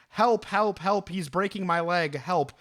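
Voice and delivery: mild mock scream for help; understated retelling of a victim's yells; retold scream for help. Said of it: "the dude starts screaming".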